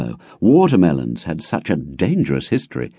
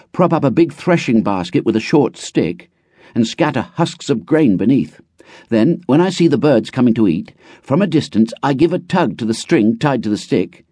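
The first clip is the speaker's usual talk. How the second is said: put-on higher, quick boy's voice full of excitement; a boy proudly explaining bird traps; eager country boy; 7 semitones higher than usual. A narrator's reading. Runtu telling his town friend about catching birds, eager boy.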